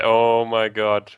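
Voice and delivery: awed, drawn out; slow stunned oh my god; slow amazed. Real, not acted. Awed by the view.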